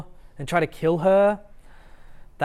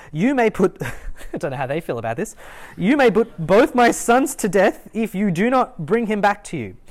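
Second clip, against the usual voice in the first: Reuben's earnest pledge; 4 semitones higher than usual. Retold or imitated. Reuben volunteers his sons to Jacob, urgent pledge. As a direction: swear it on your sons, urgently. Reuben pleads, acted quote.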